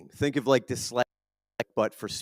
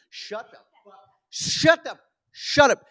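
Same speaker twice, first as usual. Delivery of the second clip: mock yell at daughter; 12 semitones higher, slower than usual. Dad yelling at daughter over a pop singer, mock exasperated shout. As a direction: bark it at the singing kid. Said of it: "telling her to shut the fuck up".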